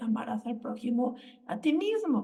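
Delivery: ordinary talk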